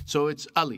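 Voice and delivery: "Ali" with a soft open A, uh-lee. Shown as a demonstration. Telling co-host how his parents say "Ali", soft open A. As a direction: say "Ali" with the short soft A as at home. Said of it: "It's like a soft A".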